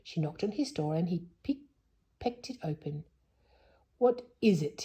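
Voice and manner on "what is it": lightly hoarse owl voice; a touch of rasp, like a hoarse owl. Acted. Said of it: "he said in a hoarse voice".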